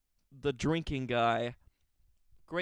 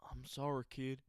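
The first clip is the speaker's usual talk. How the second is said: mock whisper; 6 dB quieter than usual. Boss turns down the worker.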